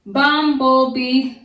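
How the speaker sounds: loud, slow "Bumblebee", syllables spaced; syllables stressed. Shown as a demonstration. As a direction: spell out "Bumblebee" in beats. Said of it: "keep those three together".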